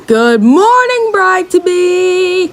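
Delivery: slow, drawn-out creepy greeting; a hint of a smug frog; slimy frog voice. Frog greeting the kidnapped Thumbelina, slow and smug.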